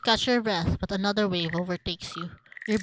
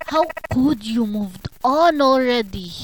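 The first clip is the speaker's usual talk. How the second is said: loud, higher wail of betrayal; anguished accusation; 4 semitones higher, 9 dB louder than usual. Acted. Betrayed lover confronting the other, anguished accusation. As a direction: cry out the accusation, dragging the end.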